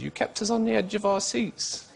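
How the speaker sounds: a light mock-royal lilt; imitating the Queen. The Queen congratulating him, lightly voiced royal.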